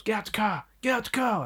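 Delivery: high, urgent mock yell at no great volume; high-pitched mimicked cop command; retold police order. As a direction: imitate an officer ordering someone out. Acts out police confronting driver.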